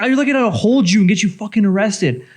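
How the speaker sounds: worked-up, retold threat; retold freak-out. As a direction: replay your own angry warning. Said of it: "You freak out".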